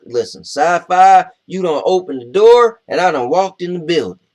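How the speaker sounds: excited. Real, not acted. Excited about sci-fi.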